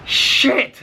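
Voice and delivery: sudden high, loud yelp of dismay; panicked outburst as the dog breaks free; alarmed curse. Retold or imitated. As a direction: blurt it as the dog bolts again. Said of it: "and I'm like".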